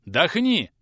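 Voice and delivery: loud, sharp command; gruff order to the boy; barked order. Acted. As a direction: snap the order out. Teacher orders the boy to breathe.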